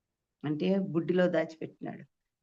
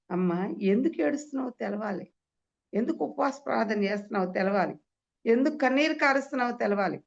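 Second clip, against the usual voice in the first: higher, building refrain; insistent preaching; 5 semitones higher than usual. Real, not acted. Preacher urging a weeping woman to know why, insistent preaching. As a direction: press each question on the congregation.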